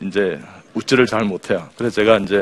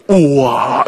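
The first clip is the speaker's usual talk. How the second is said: big drawn-out "wow" of surprise; amazed reaction; 2 semitones higher, 5 dB louder, much slower than usual. Shown as a demonstration. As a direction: react loudly as if astonished. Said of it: "놀란 거예요". (깜짝 놀란 감탄)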